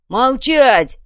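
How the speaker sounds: loud sharp command; barked order. Acted. Durich barking at the wild crowd, loud. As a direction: bark it at the crowd. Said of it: "прикрикнул Дурич".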